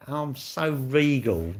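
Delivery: slow, haughty mock-royal drawl; mock regal. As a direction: pretend to be grandly regal, mocking. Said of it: "You're like".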